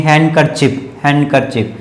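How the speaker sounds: हैंडकरचीफ said as "han-ker-chip"; silent D. Shown as a demonstration. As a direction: drop the d in हैंडकरचीफ. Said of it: "यानी कि डी नहीं".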